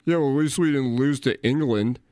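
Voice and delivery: a hint of a German accent, scoffing; mock German accent. A hint of a German accent, mocking a German bragging about England. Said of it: "does a German accent sound good right now".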